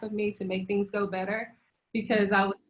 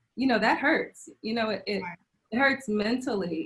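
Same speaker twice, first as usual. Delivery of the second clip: teary, near-crying voice. Recalling a hurtful hospital experience to another speaker, getting teary-eyed. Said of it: "I'm getting teary eyed now".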